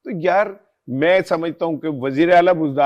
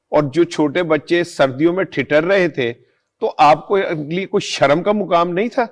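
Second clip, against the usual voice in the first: raised pitch, emphatic rhetorical questions; indignant reproach; 4 semitones higher than usual. Real, not acted. Commentator rebukes hotel owners over freezing children, indignant reproach. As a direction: press each question home with real indignation.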